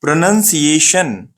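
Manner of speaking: slow "प्रोनंसिएशन" with "nun", not "noun"; correct pronunciation. Shown as a demonstration. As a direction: carefully model pruh-nun-see-ay-shun for "प्रोनंसिएशन". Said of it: "कैसा पढ़ना है". ("प्रोनंसिएशन" को धीरे, सही उच्चारण से)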